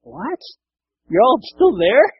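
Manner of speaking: high, loud disbelieving question; stunned jailer. Retold or imitated. Jailer amazed the prisoners stayed, high stunned. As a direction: gasp it out in shock. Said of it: "And he's like".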